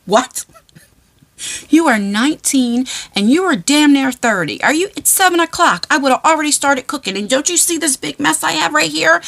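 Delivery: half-hearted scolding of grown sons; mock exasperated rant. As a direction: pretend fed-up mom. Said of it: "like The Exorcist".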